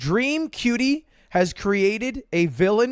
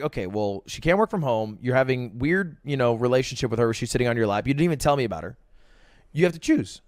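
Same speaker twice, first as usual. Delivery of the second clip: put-on girlfriend's ultimatum; 7 semitones lower than usual. Girlfriend's ultimatum voiced in story.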